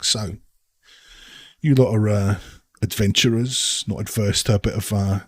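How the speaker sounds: a lightly voiced sly local leaning in; conspiratorial patron. Holbrook sounding out the adventurers about dangerous work, sly.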